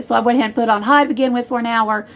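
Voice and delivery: quick, run-on explanation; hurried casual chatter; talking too fast. Real, not acted. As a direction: rattle through the instructions quickly. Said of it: "Sorry if I'm talking too fast".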